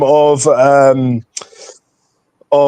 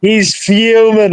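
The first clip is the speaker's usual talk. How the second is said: gloating; 4 semitones higher, much slower than usual. Real, not acted. Gloating over the guest.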